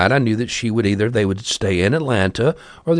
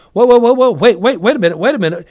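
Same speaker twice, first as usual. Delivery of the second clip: much higher, loud panicked whoas; alarmed shouting; 10 semitones higher, 5 dB louder, faster than usual. Retold or imitated. Daughter calling out as the bus moves off, loud alarm. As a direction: yell to make them stop. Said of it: "she starts going".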